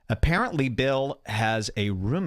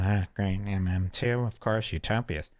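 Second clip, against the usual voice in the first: mock sarcastic grumble; 2 semitones lower than usual. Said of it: "Bill's going".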